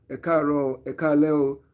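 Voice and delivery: "E kaaro, e kaale o" said as a native Yoruba greeting. Shown as a demonstration. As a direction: greet in Yoruba, easy and natural. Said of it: "in Yoruba".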